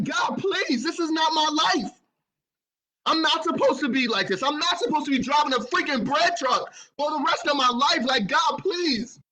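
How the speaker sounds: high loud begging cry to God; pleading scream. Retold or imitated. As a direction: beg at the top of your lungs. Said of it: "I'm screaming".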